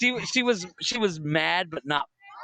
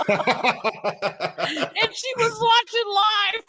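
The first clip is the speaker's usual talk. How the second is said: high squeal through helpless laughter; real laughing fit, voice shooting up; cracking up; much slower than usual. Real, not acted. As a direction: barely get the words out for laughing. Cracking up while telling the story.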